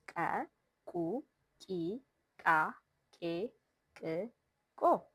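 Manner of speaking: "Ke, Ku, Ki" each with a burst of air from the throat; puffed ejective k. Shown as a demonstration. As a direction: pop the k in each syllable of "Ke, Ku, Ki". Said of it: "puffed Ke sound with a burst of air".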